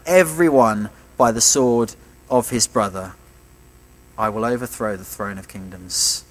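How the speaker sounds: measured, solemn reading of God's words; scripture reading. Acted. Preacher reading God's words to Haggai aloud, solemnly. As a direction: read it out as the voice of the Lord.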